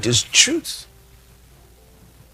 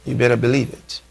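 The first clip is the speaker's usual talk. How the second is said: repeated softer, almost to himself; soft echo; 4 semitones lower, 5 dB quieter, faster than usual. Real, not acted. Preacher softly repeating his promise to listeners. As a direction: let the line sink in quietly.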